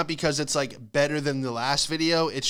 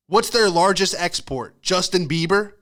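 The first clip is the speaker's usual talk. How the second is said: raised, loud comic scorn; mock outrage, pitched up; scornful mock rant; 5 semitones higher, 5 dB louder than usual. Mock rant against Canadians.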